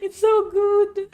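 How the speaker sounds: high, slow, teary voice; real crying. Real, not acted. Fan moved to tears by the anime, high slow teary voice. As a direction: choke it out through real tears. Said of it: "Gio is gonna cry".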